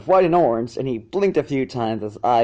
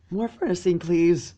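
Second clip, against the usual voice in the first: appreciative; 5 semitones higher than usual. Acted. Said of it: "Sweetie Belle said apprehensively".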